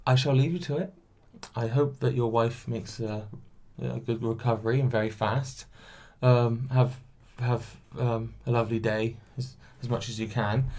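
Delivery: a hint of a prim, polite worker; calm and collected. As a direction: politely back off, keeping composure. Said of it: "I stayed calm and collected".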